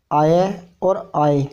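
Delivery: आय drawn out very slowly; slow sounded-out syllables. Shown as a demonstration. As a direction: linger on each आय. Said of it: "इन चार का यदि sound".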